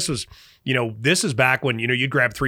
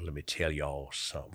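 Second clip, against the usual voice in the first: impression of the Sergeant Major; 6 semitones lower, 10 dB quieter than usual. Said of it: "he talks a lot like this".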